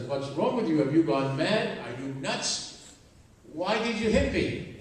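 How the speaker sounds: stunned man asking why he was hit; husband's loud shocked protest after a slap. Retold or imitated.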